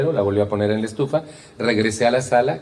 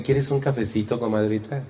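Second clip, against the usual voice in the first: sweet hostess tone. Retold or imitated. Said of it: "¿Cambió el tono de voz?".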